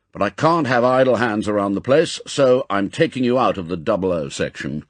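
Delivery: put-on brisk, firm elderly commander; M, gruff chief. Chief reassures agent then reassigns him, brisk and firm. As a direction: set him straight, firmly. M speaks.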